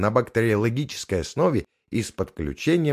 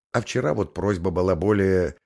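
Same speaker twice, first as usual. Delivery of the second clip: flustered. Acted. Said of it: "сбивчиво объяснила Макс".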